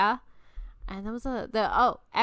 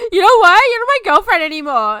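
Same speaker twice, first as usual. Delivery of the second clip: louder, fast mock huff; a hint of a sulky ex; 8 semitones higher, 10 dB louder, faster than usual. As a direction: act out his petty breakup. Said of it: "And he was like".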